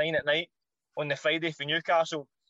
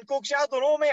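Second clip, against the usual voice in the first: baffled; 8 semitones higher, 3 dB louder than usual. Retold or imitated. His own baffled reply, retold.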